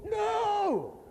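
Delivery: high, loud shouted no. Retold or imitated. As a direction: bark a flat refusal. Official shouts refusal.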